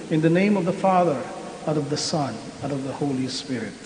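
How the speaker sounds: solemn, measured prayer voice; liturgical prayer. Acted. Blessing of religious articles.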